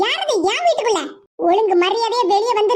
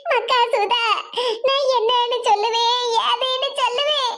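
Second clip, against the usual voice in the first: tearful lament. Acted. Grandmother answering worried young Sudha, tearful lament. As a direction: lament as if at a loss for words. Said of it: "எதுக்கு இப்படி அழுதுகிட்டு இருக்கீங்க".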